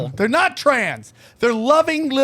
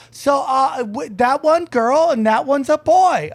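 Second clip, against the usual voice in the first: higher, slow imitated Asian accent; thick Asian accent; 5 semitones higher than usual. Shop lady guessing about the twins, mock Asian accent. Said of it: "Thick Asian accent".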